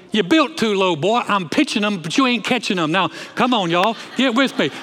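a touch of blustery cartoon southern rooster; Foghorn Leghorn. Preacher quotes the southern chicken to the congregation, lightly imitated rooster bluster. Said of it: "that southern chicken? He's like".

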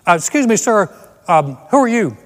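mock on-the-scene news report; a hint of a serious TV correspondent; TV news reporter. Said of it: "some guy standing there going".

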